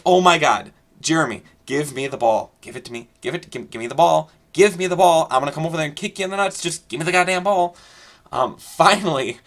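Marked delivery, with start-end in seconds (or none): 0.0-7.7 frustrated demands. Retold or imitated. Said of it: "and I'm just like".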